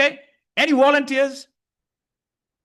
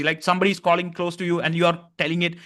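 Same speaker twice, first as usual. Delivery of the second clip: usual speaking voice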